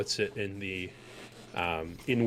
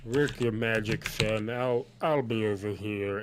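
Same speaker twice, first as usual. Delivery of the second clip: lightly voiced tabaxi figure; a hint of dismissive character voice; Farguild. Farguild leaves the healing to his son, lightly voiced. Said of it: "he says".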